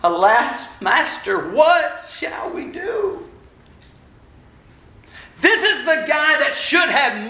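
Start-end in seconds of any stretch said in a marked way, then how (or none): 0.0-3.3 slow, high, shouted cry of alarm; alarmed servant wailing for his master; panicked cry. Acted. Servant panics seeing the army.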